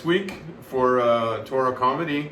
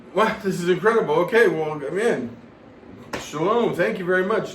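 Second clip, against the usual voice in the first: higher, mildly hammed-up amazement; retold wonder, pitched up; amazed thanks; 5 semitones higher, 3 dB louder than usual. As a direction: play the delighted, grateful friend. Retold amazed thanks for more candles.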